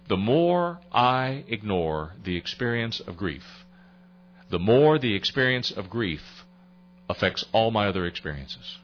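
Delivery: slow, weighing each phrase; measured first statement; slow and deliberate. Shown as a demonstration. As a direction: let it sink in slowly. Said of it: "let me give that to you again".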